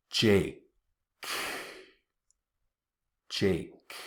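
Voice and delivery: "Jake" with the tongue pressed up, K held; stopped K. Shown as a demonstration. Teacher showing how to stop the air on the K. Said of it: "press your tongue against the top".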